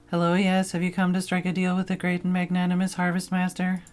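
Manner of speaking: a pompous field spirit offering a deal; Harvest Master scarecrow. Acted.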